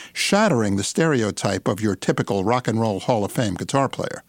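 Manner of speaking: polished announcer read of a bio; radio intro read. Acted. Pre-recorded show intro read.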